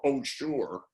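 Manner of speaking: a mildly sarcastic "oh, sure"; lightly mocking brush-off of a date request. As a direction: say yes while meaning never, a touch of scorn. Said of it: "it doesn't mean sure, it means never".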